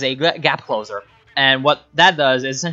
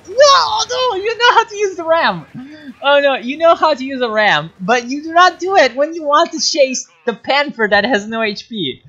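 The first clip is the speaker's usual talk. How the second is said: very high and loud, furious disbelief; high, loud real frustrated rant; angry outburst; 10 semitones higher, 5 dB louder than usual. Real, not acted. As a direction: yell at the player in real anger. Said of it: "I'm so mad right now".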